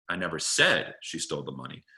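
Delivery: "said" lager en nadrukkelijk gezegd; stress on said. Shown as a demonstration. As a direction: leg de nadruk op "said". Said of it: "emphasizing the underlying word".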